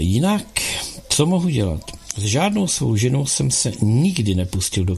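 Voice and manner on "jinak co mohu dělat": Jinak? bezradně opakované, výš, se stoupavou melodií; Jinak? zopakuj, jako by hledal odpověď. Acted. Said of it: "Nadechl jsem se". (Jinak? bezradně zopakované)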